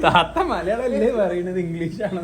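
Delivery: laughing, high, slow fish seller imitation; sharp piercing fish seller. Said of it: "മീൻകാരൻ ചോദിച്ച പോലെ".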